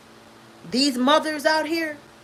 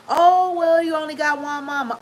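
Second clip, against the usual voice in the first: mocking quote; 4 semitones higher than usual. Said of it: "Everybody gaslight you and lie to you when you say".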